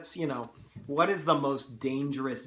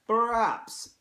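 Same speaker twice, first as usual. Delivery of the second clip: put-on high, loud Russian-accented opening word; 10 semitones higher, 8 dB louder than usual. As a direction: attempt a Russian general's accent. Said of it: "hard to do a Russian accent".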